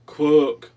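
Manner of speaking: "Quack!" said as "kwuck", very loud; very loud duck honk, "Quack!" as "kwook"; quack with borrowed U. Acted. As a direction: blast out "Quack!" with a short "u". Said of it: "Try my uh".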